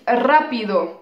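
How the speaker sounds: "rápido" stressed on its first syllable; antepenultimate stress. Shown as a demonstration. Teacher adds an adjective example for students, stressing the first syllable of "rápido". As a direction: lean on the "rá" of "rápido". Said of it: "accentués sur la troisième syllabe en partant".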